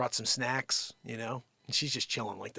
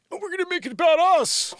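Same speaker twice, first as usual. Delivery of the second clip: exasperated scolding; 10 dB louder than usual. Real, not acted. Scolding dogs fighting during show.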